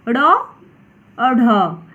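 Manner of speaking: ड़ और ढ stretched very slowly, each flap sound held; ड़ और ढ pronounced at a crawl, sound by sound; drawn-out letter demo. Shown as a demonstration. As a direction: spell out ड़ और ढ slowly so children can copy. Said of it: "इसे अन्य वर्ण कहते हैं".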